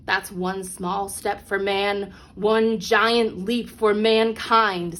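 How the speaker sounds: slow, measured famous words; a hint of a historic radio line; slow solemn quote. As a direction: draw it out gravely, word by word. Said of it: "said astronaut Neil Armstrong".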